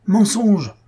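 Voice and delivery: second "mensonge" bursts out as a furious yell; angry mob shout. Acted. Brahmans shout down Devadatta's defense, furious yell. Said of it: "répétèrent les brahmanes".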